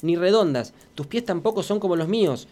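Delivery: narración de cuento, pausada y cálida; leído a los niños. A narrator's reading. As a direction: leer un cuento infantil con ritmo. Reads children's story on radio. (voz de cuentacuentos para chicos)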